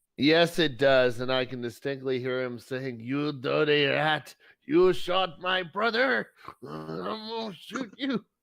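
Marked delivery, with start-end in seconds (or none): 3.0-8.2 abrupt put-on French accent, slow and high. Voicing an enemy who threatens to shoot back: sudden French accent. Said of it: "We have a sudden Frenchman".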